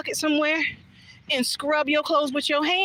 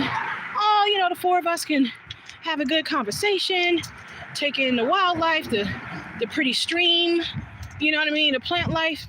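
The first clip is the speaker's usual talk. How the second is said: dreamy hopeful; 4 semitones higher than usual. Retold or imitated. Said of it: "So I'm thinking".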